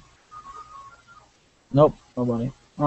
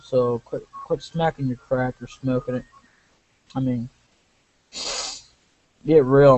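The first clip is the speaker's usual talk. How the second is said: gruff guy voice; 4 semitones lower than usual. Acted. Voices a townsperson.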